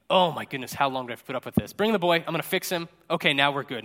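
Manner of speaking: mock angsty impatience; mildly fed up, hurrying to fix it. Jesus about to heal the boy, mildly angsty. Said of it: "he has this, like, angsty".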